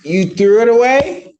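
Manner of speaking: high, disbelieving question; incredulous. Real, not acted. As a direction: sound like you don't buy it. Judge doubts defendant's excuse.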